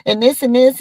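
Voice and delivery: mock disbelief at her bragging; imitating Cam. Cam reacting to Natalie's bragging, mock incredulous. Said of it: "the way Cam was looking at her like".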